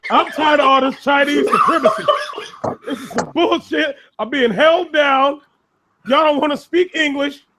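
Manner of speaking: mock the complainer while cracking up; laughing mock complaint. Mocking someone who feels held down, laughing throughout.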